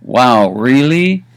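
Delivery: drawn-out surprised "wow, really?" rising at the end; amazed question. Shown as a demonstration. Teacher showing the range of one phrase, amazed and drawn out. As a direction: react with slow, impressed disbelief. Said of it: "it can go from anywhere from a".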